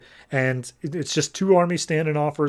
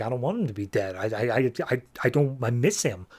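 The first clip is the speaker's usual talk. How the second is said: softer, faltering mock tearful lines; crying child; 2 semitones lower, 4 dB quieter than usual. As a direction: stumble over the words like a girl fighting tears. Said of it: "Maxine just sits down and cries".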